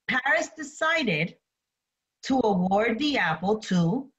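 measured read-aloud with pauses between phrases; slow story reading. Real, not acted. Teacher reads myth while students draw notes, slow story reading. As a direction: read it slowly, leaving room for note-taking. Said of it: "I'm going to read the story slowly".

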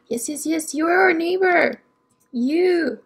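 eager yeses into a delighted exclamation; excited recognition. Real, not acted. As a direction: build excitement as you spot them. Spots the neighbor she was seeking.

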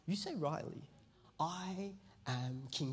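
slow, commanding king declaring "I am king"; Jesus in boss mode. Retold or imitated. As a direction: speak it like an unshakable ruler. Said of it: "This is Jesus in boss mode".

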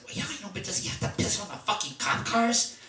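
high, rising urgent plea, mock exasperated; imitating a fed-up organizer begging for help; retold pleading complaint. Organizer asks Dave to handle Jack, mock exasperated high plea. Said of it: "And he said".

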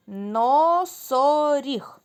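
slow, drawn-out word; syllable by syllable. Shown as a demonstration. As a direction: stretch носоріг into its syllables. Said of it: "Плескаємо в долоні". (повільно, по складах)

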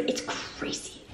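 slow, stunned whisper. Real, not acted. Telling viewers about losing the apartment, slow whisper. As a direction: breathe it out slowly in disbelief. Repeats in disbelief.

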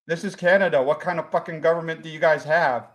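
put-on light comic Jacksonville accent. Lost visitor explains himself to the host, light Jacksonville accent.

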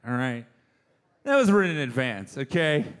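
ordinary talk, nothing marked

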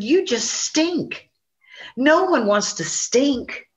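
slow, drawn-out insult; slow sneer. Acted. Possum sneering at the skunk, slow and drawn out. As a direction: sneer it out slowly at him.

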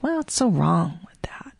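breathy whispered aside. Retold or imitated. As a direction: whisper it to yourself. Inner thought quoted.

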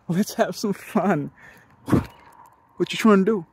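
slow, drawn-out playful invitation; suggestive come-on. Retold or imitated. "let's have some fun" replayed as innuendo, slow and suggestive. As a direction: draw it out like a teasing proposition.

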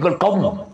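short resonant bang imitation; spoken sound effect; imitated clang. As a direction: imitate a sudden "kom" noise. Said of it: "Bunyi pukul dua".

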